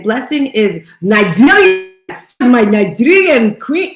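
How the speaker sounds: a light, fond Nigerian accent put on for fun. Host shouting out Blessing in a playful Nigerian accent. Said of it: "Okay, my Nigerian accent".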